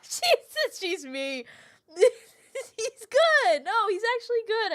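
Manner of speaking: high, fast, laughing praise. Real, not acted. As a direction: gush through laughter.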